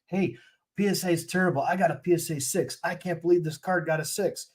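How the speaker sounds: hammed-up complaint about a grade; mock ranting collector. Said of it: "I start saying".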